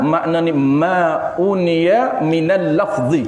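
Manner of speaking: slow, deliberate Arabic phrase; Arabic recitation. Shown as a demonstration. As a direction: draw out "ma'uniya minal lafzi" slowly in Arabic. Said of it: "Arabic definition recited".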